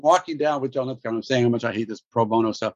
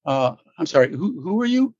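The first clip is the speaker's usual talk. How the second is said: mock puzzled; 2 semitones higher than usual. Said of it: "And he said".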